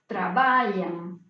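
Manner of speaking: trabalham said slowly, each syllable clear; slow Portuguese demo. Shown as a demonstration. Teacher drawing out trabalham for the class, slow and clear. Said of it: "como por ejemplo".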